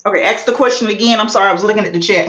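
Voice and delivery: rushed while being tickled; squirming through the words. Real, not acted. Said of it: "Ronnie Q is tickling me".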